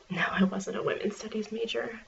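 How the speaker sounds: library whisper. Acted.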